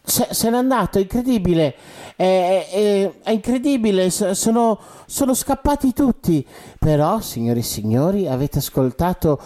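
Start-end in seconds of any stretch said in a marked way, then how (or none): 0.0-6.5 stammering, pitch climbing; shocked. Acted. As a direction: stammer in disbelief. Presenter stunned, stammering.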